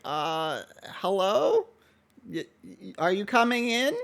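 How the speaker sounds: mildly voiced nervous kid; shy shop boy. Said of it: "he's like".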